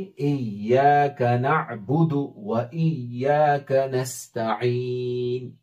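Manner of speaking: slow, joined reading of इय्याक नअबुदु व इय्याक नस्तईन; joined recitation. Shown as a demonstration. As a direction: recite the phrase smoothly and slowly. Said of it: "और फिर मिला के पढ़ेंगे". (मिलाकर धीमी तिलावत)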